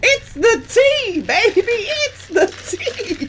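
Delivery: high, slow, loud sassy drawl; sassy diva. Pretend. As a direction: serve it like spilling gossip. Hyped sassy catchphrase.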